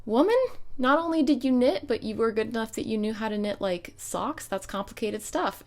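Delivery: loud, high disbelieving cry at grandma; incredulous outburst. Retold or imitated. Granddaughter to grandma who hid her knitting, loud incredulous outburst. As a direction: scold her in mock shock, loud and high.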